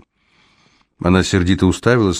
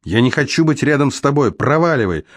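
angry shouting; 7 semitones higher than usual. A narrator's reading. Luna furiously drives Alex away.

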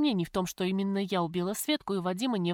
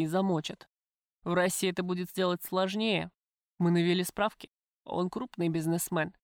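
lightly voiced tough man; gangster, coolly menacing; 2 semitones lower than usual. Gangster tells the prisoner he knows of her visitor, cool. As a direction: speak as a matter-of-fact criminal.

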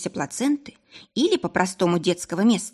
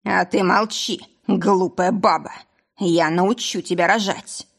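put-on drunken angry roar. Drunk husband threatening with pitchfork.

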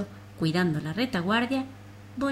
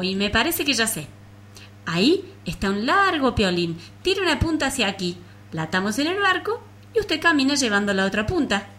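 higher, louder clever bug voice; eager louse voice; 4 semitones higher, 4 dB louder than usual. Acted. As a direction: pitch it up as a bright little bug. Louse proposes a plan.

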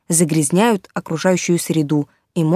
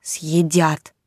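timid teddy bear; 2 semitones lower than usual. Acted. Teddy bear fears being eaten.

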